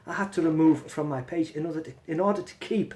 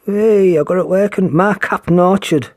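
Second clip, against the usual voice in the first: excited; 3 semitones higher, 14 dB louder than usual. Real, not acted. Excited, got comments working.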